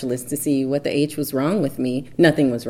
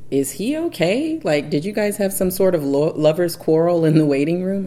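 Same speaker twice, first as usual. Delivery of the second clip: a much higher-pitched, nosy nurse; curious nurse; 4 semitones higher, 4 dB louder than usual. Retold or imitated. Nurse asking the wife about the husband, high and nosy. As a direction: play the nurse fishing for gossip. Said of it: "the nurse was like".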